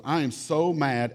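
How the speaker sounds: slow, stretched pretend pout on "so mad"; mock child anger. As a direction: drag out the pout like an angry kid. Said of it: "Let me read you a letter".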